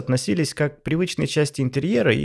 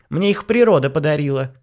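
indignant shout; 4 semitones higher, 5 dB louder than usual. Acted. Wife retorts loudly.

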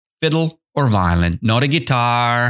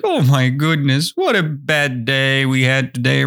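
mild mock whine of complaint; whining; 2 semitones higher than usual. Someone complaining about a bad day, mildly whining. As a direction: grumble it with a light touch of whine. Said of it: "you're whining. You're like".

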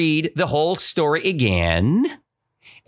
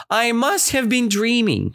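amazed; 9 semitones higher than usual. Retold or imitated. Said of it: "she's saying again".

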